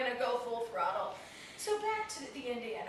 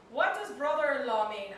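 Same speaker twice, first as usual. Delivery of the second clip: louder, badly imitated Indian accent; 5 dB louder than usual. Comic imitating Indian cab driver, bad Indian accent. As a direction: put on a clumsy Indian accent. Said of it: "it's the worst Indian accent".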